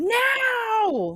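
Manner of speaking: high, sharp, piercing scream. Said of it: "I just scream".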